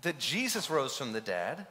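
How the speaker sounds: voicing Paul's disbelief at the Corinthians; Paul exasperated. Paul scolding the Corinthians, incredulous. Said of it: "He's saying".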